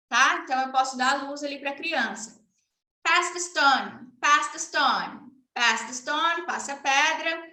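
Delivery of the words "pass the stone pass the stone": put-on slow and clear for a child; slow command. Shown as a demonstration. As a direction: Pass stressed, said slowly. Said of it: "demo for a child".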